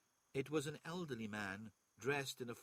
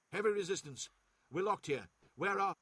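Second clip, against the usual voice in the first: louder, higher report yelled over battle noise; urgent vox shout from a soldier pinned down; shouting over gunfire; 7 semitones higher, 8 dB louder than usual. A narrator's reading. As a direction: yell the report through the din of fighting. Captain reports under fire.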